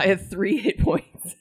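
put-on slow whiny big-baby voice; whiny man-child. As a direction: whine it like a pouting child. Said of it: "This, this is her "you big baby" voice".

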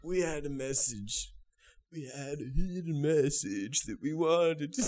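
put-on light Irish accent as a rock guitarist; casual Irish lilt. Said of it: "This character has evolved".

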